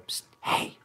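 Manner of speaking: tempting little whisper in the ear. Retold or imitated. Whiskey whispering to a drinker, tempting whisper. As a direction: hiss it like a bad conscience. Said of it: "whisper in your ear and go".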